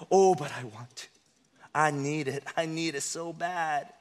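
soft, low inner wrestling; half-whispered inner debate; inner argument voice. Acted. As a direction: mutter the temptation to yourself. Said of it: "there's always two sides".

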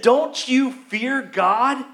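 slow, mildly stern rebuke. Retold or imitated. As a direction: challenge him slowly, a touch reproachful. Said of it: "he rebuked criminal number one".

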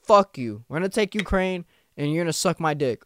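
fed up, finally hitting back; Putin fed up. Retold or imitated. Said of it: "that's why he's like".

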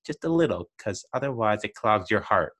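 a hint of a small boy answering his dad; kiddish voice. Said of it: "the little kiddish voice goes".

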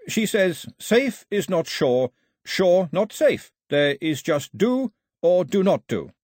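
measured riddling wisdom relayed; Carley quoting the old woman. A narrator's reading.

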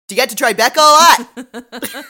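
loud, high, slow mock yell; yell talking. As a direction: imitate a detective yell-talking in someone's face. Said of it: "he yell talks".

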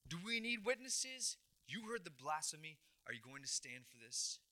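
high-pitched outraged cry, easing down; mock shout that settles toward normal; acted shouting out. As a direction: imitate a priest appealing to the crowd, starting high. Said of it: "And he shouts out".

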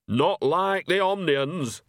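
slow, sharp snap; snapped. Acted. Nanny snapping about the Omnians, sharp and firm. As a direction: bite the words off firmly. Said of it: "snapped Nanny".

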